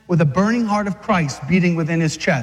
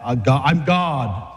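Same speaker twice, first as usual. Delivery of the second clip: hesitant, lower and slower, an unsure "I'm God"; timid God; 7 semitones lower than usual. Acted. Preacher mocking a weak way to answer the horde. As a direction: fumble the claim. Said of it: "How else do you say that?".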